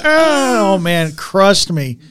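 normal talking voice

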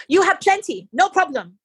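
high voice with a giggle through it; giggling nurse. Retold or imitated. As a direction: tease her with a giggle. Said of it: "she giggles and she goes".

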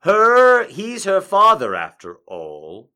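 measured storytelling read with deliberate pauses; story narration. Acted. Fanfic narration continues.

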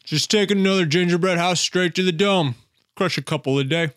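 chewing through the words; mouth full. Acted. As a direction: talk round a big bite. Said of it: "are you eating a coaster?".

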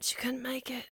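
"couldn't" said softly, voice dropping away; dropped to a hush. Acted. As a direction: let "couldn't make it" fade out sadly. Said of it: "repeated for effect".

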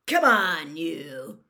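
loud, gruff command, dropping at the end; gruff order. A narrator's reading. Moody hauls Malfoy off, gruff order. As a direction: bark it to get someone moving.

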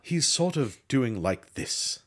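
slow, affected actor-speak demo; pretentious actor talk. Shown as a demonstration. Showing a co-host the fake British sound, pretentious actor talk. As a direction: draw it out like a self-important thespian. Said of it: "him being incredibly pretentious".

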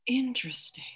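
high, intrigued "Interesting". Shown as a demonstration. Clown teacher demoing a problem met with curiosity, intrigued. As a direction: meet the problem with calm curiosity. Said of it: "you go".

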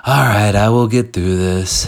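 said straight through without punching WILL; half-hearted affirmation. Shown as a demonstration. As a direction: toss off the affirmation without conviction. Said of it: "You can't just say, like".

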